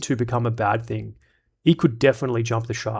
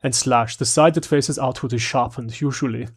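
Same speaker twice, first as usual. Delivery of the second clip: lightly hammed-up German accent; bad German accent. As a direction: read it in a clumsy mock German accent. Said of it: "Now I've gotta read it in German accent".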